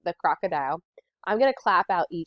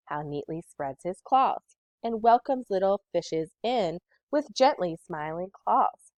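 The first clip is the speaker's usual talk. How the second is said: rhythmic poem reading. Shown as a demonstration. Teacher reads the crocodile poem aloud for the class in a rhythmic voice. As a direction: read it with a steady beat. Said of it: "listen as the teacher reads".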